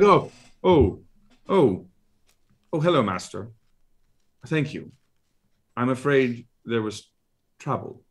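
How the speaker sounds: a nervous servant reporting to his master; flustered drow servant. Acted. GM voices butler drow Tootsie.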